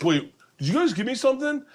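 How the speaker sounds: high-pitched mock bewilderment; put-on high, dazed question; fake tripping. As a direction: imitate someone pretending to be drugged. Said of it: "Ari fake tripping".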